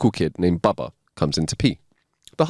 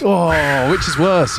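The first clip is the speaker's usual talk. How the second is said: laughing; 8 semitones higher, 5 dB louder, much slower than usual. Real, not acted. Reacting to joke, laughing.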